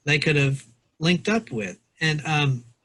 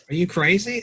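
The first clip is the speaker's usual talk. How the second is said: mildly acted disbelief, pitched up; retold incredulous question, raised pitch; 5 semitones higher than usual. Father balking at inviting the old man to eat, incredulous. Voicing the man's objection to boy.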